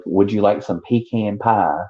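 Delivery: pecan as pee-CAN, pie drawn toward "pah"; imitated pee-can pronunciation. Imitating someone offering dessert, pecan as pee-CAN. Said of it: "some people say pecan".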